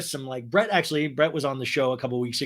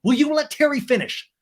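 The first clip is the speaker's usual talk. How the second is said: mock yell; 10 semitones higher, 5 dB louder than usual. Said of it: "And Ariana yells".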